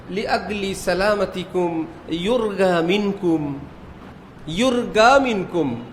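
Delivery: slow announcement, ইউরগা said with a hard g; slow ইউরগা with g where the spelling has j; Egyptian airline Arabic. Retold or imitated. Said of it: "লেখে জিম দিয়ে".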